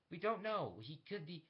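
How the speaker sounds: lightly voiced interrogator arguing back; interrogators behind glass. People talking behind the glass about him, lightly voiced interrogators.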